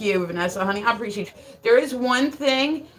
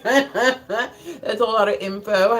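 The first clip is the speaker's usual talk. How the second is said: laughing; much slower than usual. Real, not acted. Repeats the line, laughing slowly.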